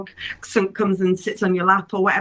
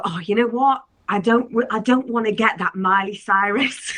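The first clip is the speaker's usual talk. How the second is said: a hint of bad Cockney; badly faked Cockney, lightly done; awful Cockney accent. Guest demonstrating rhyming slang for the virus, awful Cockney accent. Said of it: "this is my awful Cockney accent".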